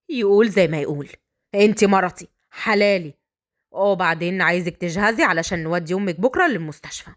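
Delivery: low, assured male voice; unbothered bridegroom. Acted.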